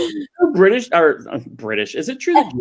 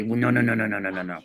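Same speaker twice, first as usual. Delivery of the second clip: zachter, a touch of grandma scolding; lightly voiced grandma waving it off; Jewish grandmother voice; 4 semitones lower, 7 dB quieter than usual. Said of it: "Jewish grandmother voice".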